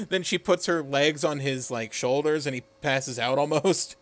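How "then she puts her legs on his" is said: normal talking voice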